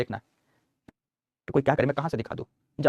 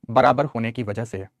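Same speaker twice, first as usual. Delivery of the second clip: slow dictation; 4 semitones lower, slower than usual. Shown as a demonstration. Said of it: "dictation repeated".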